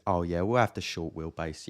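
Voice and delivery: lightly voiced confident customer; a hint of bluffing buyer; mock assured customer. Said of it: "I put on a little voice".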